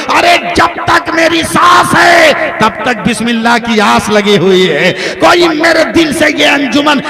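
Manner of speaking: loud, defiant wail of a wronged wife; anguished cry. Acted. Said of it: "सिसकियां लेकर कहती है". (ऊँची दर्द भरी पुकार)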